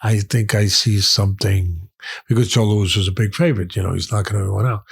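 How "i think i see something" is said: slow, bad German accent; a deliberate, hammy German accent. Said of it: "I'm bad German accent".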